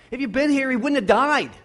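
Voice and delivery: high, loud, insistent proclamation; emphatic cry of faith. Acted. Preacher proclaims Mary's faith emphatically.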